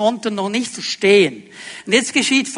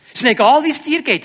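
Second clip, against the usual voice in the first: higher-pitched, acted indifference; mock selfish dismissal; 4 semitones higher, faster than usual. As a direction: play the egoist brushing someone off. Voices the self-centred attitude. (gespielt egoistisch, mit höherer Stimme)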